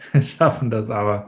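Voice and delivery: light laugh carried into the words. Real, not acted. Host reassuring Annette about the mic, laughing. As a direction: say it through the tail of a laugh.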